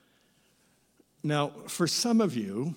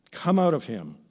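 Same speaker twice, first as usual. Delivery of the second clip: stern command. Acted. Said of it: "says Jesus sternly".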